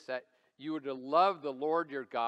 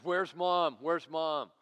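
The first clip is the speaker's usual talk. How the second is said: put-on mildly urgent child's demand, louder on the first cry; daughter in crisis; 2 semitones higher, 6 dB louder, much slower than usual. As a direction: lightly imitate a worried daughter. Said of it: "It was like a crisis".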